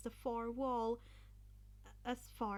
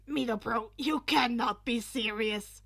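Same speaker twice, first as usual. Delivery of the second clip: louder disbelieving cry; loud protest; 10 dB louder than usual. Acted. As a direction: object in disbelief. Kirishima protests loudly.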